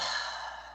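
long, quiet breathy sigh. Real, not acted. Wrestling fan pausing after the news, quiet sigh. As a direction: let out a soft exhale. Sighs before fantasy-booking talk.

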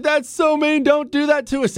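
high-pitched imitation of whining sons; mock protesting kids. Dad retelling his sons' texted reply, mock high protest. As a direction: mimic the boys' protest well above your own pitch.

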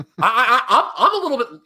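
words broken up by laughter; laughing. Real, not acted. Host laughs at his own harsh take, laughing. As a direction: laugh through the stumbling start. Laughs while admitting criticism.

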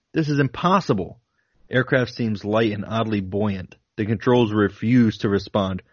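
steady, deliberate reading of a flight log; reading a diary aloud. Acted. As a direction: read it like a pilot's logbook entries.

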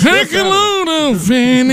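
put-on old man voice. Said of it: "doing your old man voice".

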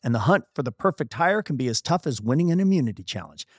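host reading the sponsor message. Acted. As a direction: read the ad like a polished spot. Reads sponsor ad.

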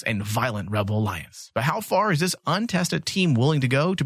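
lightly theatrical trailer narration; dramatic blurb read. Acted. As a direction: read the synopsis with weighty pauses and stressed key words. Reads out the comic's blurb.

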